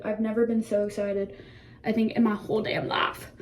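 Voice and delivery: light Southern country twang; country accent. Real, not acted. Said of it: "I went country for a minute".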